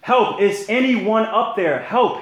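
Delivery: loud, high shouts from a dangling man; desperate yell for help. A narrator's reading. Jack hanging off a cliff shouts up for rescue, panicked. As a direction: call out into the canyon for rescue. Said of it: "he yelled for a long time".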